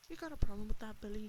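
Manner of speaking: loud, looming challenge; loud demand. A narrator's reading. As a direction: push it in his face, hard. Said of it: "he demanded".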